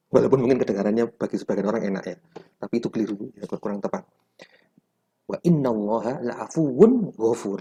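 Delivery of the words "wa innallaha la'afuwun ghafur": "la'afuwun" closed firmly on wun, straight into "ghafur"; no vowel after the n of "la'afuwun"; careful model reading, "la'afuwun" cut cleanly before "ghafur"; clean stop on wun. Shown as a demonstration. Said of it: "Langsung wun, hentikan".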